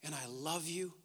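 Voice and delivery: very soft, low, with pauses; hushed tenderness. Acted. God reassuring those who feared him, hushed and tender. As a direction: speak forgiveness gently, sinking to a whisper. God's tender words, sermon close.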